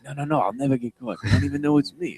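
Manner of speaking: lightly voiced cocky kid; a hint of a kid boasting to Dad. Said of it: "why I'm doing that voice".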